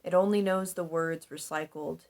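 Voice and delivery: measured spoken-word reading with deliberate pauses; spoken-word poetry, each line set apart; poem recitation. Acted. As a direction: recite your own poem, pausing between phrases. Reads own poem aloud.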